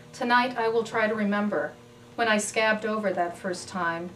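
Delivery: measured poem recital, pausing between phrases; poetry reading. Acted. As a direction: read it as a poem, each phrase set apart. Reads own poem aloud.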